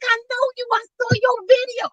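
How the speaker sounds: excited greeting. Retold or imitated. Excited quoting first meeting.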